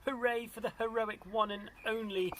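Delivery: high storybook cheer; happy hooting. A narrator's reading. Duckbills celebrate Drip, high happy cheer. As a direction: lead a high three-cheers for the hero. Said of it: "the duckbills hooted happily".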